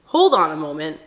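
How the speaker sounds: a fuming friend calling him out; the brother confronting his friend, imitated angrily; retold angry protest. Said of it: "all my brother is seeing is red".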